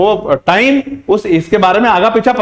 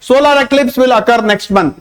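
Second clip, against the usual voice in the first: slow example sentence; 4 semitones higher, much slower than usual. Shown as a demonstration. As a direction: read each word out slowly and clearly. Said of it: "examples के जरिए मैं आपको समझाना चाहूंगा". (धीरे-धीरे साफ़ पढ़ा गया उदाहरण वाक्य)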